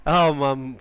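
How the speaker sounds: real, loud startled "oh"; surprised outburst. Real, not acted. Host suddenly hears his lost caller on Skype, loud surprised outburst. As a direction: burst out loudly in surprised relief.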